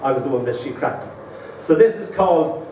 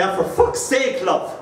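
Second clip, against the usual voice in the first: higher, exasperated fake grumble; mock annoyance; 4 semitones higher than usual. Shown as a demonstration. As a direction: pretend to be fed up. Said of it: "if Dan was annoying me, I'd say".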